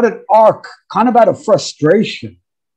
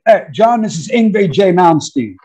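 imitating a guitarist. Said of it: "the voice said".

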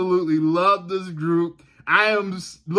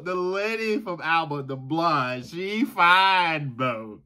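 put-on Southern boy voice; 4 semitones higher, slower than usual. Shown as a demonstration. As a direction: admire her in a Southern boy accent. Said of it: "say it in my Southern boy voice".

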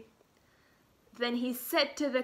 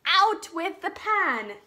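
hungry king; 4 semitones higher, 6 dB louder than usual. Acted. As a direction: boom it out like a big kind king. King calls for the pan.

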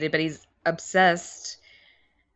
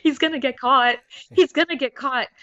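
higher-pitched mock worry; imitating concerned mom; 6 semitones higher, faster than usual. Daughter quoting mom fearing for a movie character, concerned. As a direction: fret like an anxious mom, lightly hammed up. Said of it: "she got very concerned for his safety".

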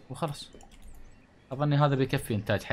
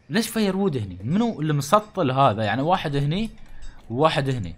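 loud, high frustrated yell at the villagers; exasperated outburst; 4 semitones higher, 7 dB louder than usual. Real, not acted. Gamer yelling at his useless villagers, exasperated. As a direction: vent at the clumsy workers.

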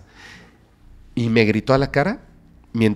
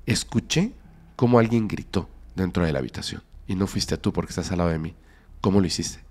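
scared quiet voice; 5 semitones lower, 5 dB quieter than usual. Retold or imitated. Frightened girlfriend quoted after crying.

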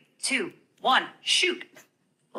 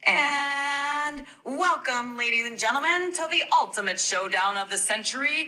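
sportscaster. Pretend. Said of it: "Can you count us in and sound like a sportscaster?".

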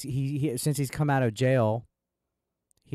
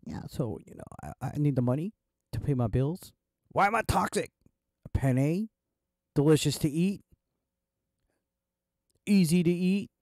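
DSP sweet nothings; 2 semitones higher than usual. Retold or imitated. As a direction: whisper sweet nothings, hammed-up. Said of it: "This is how D S Ps whispering sweet nothings to people's ears would sound like".

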